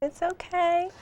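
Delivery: soft reassurance. Real, not acted. Comforting the tearful host.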